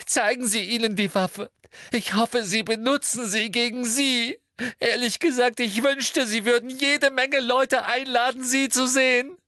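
put-on very high, loud girl's tirade; hysterical outburst. A narrator's reading. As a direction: rant shrilly, building to a squeal. Hermine's tearful tirade at Umbridge.

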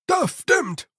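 high, slow Igor servant voice; a lisping, eager laboratory servant. Acted. Igor speaks, narrator voices him. (hohe Dienerstimme des Igor)

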